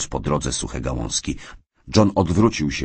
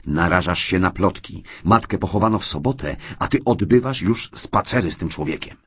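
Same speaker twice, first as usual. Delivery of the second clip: rising, heated scolding, pitch climbing; angry reproach; 3 semitones higher than usual. Acted. Husband scolds wife for gossip, heated reproach.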